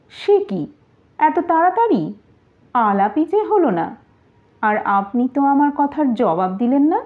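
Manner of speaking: high, teasing lady's voice; a courtesan mocking the pregnant wife, high and teasing. Faizi mocks Lutfa before Siraj.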